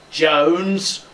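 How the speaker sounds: name stressed with loathing; hateful emphasis. Shown as a demonstration. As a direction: lean loudly on the hated name. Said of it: "make it sound like you hate him".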